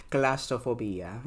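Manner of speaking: Claustrophobia drawn out slowly, rising at the end; favorite way to say it. Shown as a demonstration. Vlogger repeating her beloved word, slow and rising. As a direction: savor Claustrophobia slowly, ending on a rise. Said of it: "I love saying it like that".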